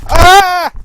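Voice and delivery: sudden loud high scream; real startled scream. Real, not acted. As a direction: yelp as the dog panics. Dog tangles the headset cord.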